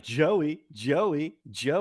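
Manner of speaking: mock insistent calling; annoying repeated calling. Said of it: "She just kept being like".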